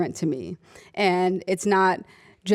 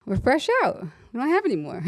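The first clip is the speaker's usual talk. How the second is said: higher, dry joke with a laugh breaking in; deadpan the bad news, then crack; sarcastic quip; 5 semitones higher, faster than usual. Nurse jokes back at the racist patient, sarcastic and higher. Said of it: "And I said".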